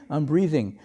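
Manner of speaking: laughing through a blank answer; amused at his own forgetfulness; laughing at himself. Retold or imitated. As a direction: say it while chuckling at your own confusion. Retold blank self-introduction, laughing.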